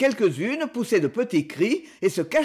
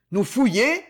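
a touch of a raised outraged refusal; indignant cry; 3 dB louder than usual. A narrator's reading. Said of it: "s'écria Alphonse".

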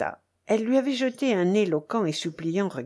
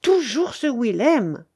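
slow, louder, bitter exclamation; sudden anger; 5 semitones higher, 5 dB louder, slower than usual. A narrator's reading. The baron rages at hearing of Willem, sudden anger. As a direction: lean angrily on each word. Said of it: "avec une colère subite".

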